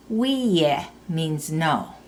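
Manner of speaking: "Wiye" with the E sound held long; "Wiye" with a stretched E, said slowly; long vowel. Shown as a demonstration. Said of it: "Notice how that E sound stretches out".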